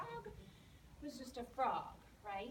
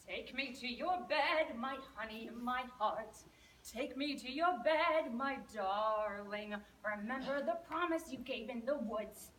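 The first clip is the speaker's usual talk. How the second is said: louder, slow sing-song croaking frog; croaky frog; 6 dB louder than usual. Acted. Frog pleading outside the princess's door, loud croaky sing-song. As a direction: croak and croon each plea at the door. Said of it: "croaked in his croakety voice".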